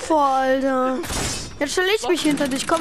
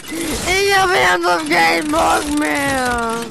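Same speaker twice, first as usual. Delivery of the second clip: frustrated; slower than usual. Real, not acted. Frustrated at the game.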